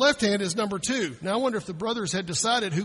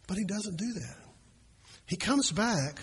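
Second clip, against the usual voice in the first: ordinary talk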